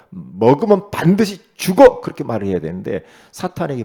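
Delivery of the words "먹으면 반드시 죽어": loud, slow, 반드시 hit hard and rising; blunt command. Retold or imitated. How Eve should have answered Satan: loud, slow, blunt. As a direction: bang out the word bluntly. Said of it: "원색적인 말씀으로 탁 말".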